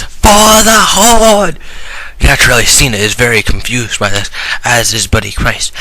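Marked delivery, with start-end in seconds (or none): 0.0-1.6 high, slow, shouted battle cry; baby war cry. Acted. A little baby yells a battle cry, high and drawn out. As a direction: yell it like a tiny warrior charging in. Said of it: "A little baby yells".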